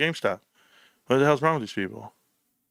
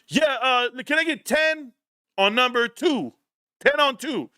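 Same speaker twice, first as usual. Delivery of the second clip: higher, overly cheerful cashier request; husband cheerfully orders ten dollars of gas, higher; chirpy request; 10 semitones higher than usual. Retold or imitated. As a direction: pitch it up like a bright customer.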